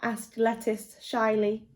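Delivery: gentle storybook read-aloud; lively picture-book reading; reading to children. Acted. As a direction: tell it like a bedtime story to little ones.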